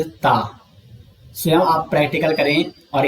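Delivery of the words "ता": ता said alone, tongue tip touching the teeth; a clean dental ता, shown slowly; isolated ता with the tongue on the teeth; demo of ता. Shown as a demonstration. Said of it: "ता का उच्चारण करोगे".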